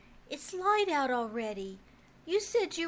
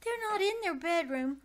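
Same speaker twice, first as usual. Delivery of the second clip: tearful; 3 semitones higher than usual. Acted. Child upset parents missing.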